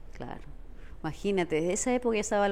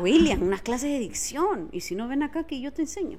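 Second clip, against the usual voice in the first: flirty plea; 3 semitones higher than usual. Acted. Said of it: "te pido por favor".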